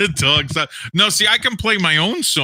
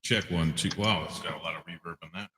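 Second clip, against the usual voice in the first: booming voice with heavy reverb; God voice; 10 semitones lower, 12 dB quieter, faster than usual. Acted. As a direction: speak like a voice from the sky. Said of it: "doing the God voice".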